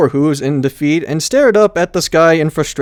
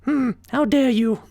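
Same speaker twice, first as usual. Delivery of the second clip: indignant pony; 13 semitones higher than usual. A narrator's reading. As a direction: protest in offended huff. Twilight indignant.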